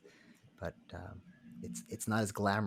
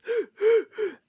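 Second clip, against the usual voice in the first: sharp, loud gasp for air, acted out; imitated gasp; 14 dB louder than usual. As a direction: mimic a sobbing man fighting for breath. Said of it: "gasp a little bit".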